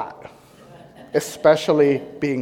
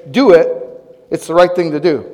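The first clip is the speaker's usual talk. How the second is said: louder "Do it", firm and decisive; the voice of conscience ordering; head's firm command; 4 dB louder than usual. Pretend. Head telling the husband to apologize, firm and loud. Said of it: "So my head is saying".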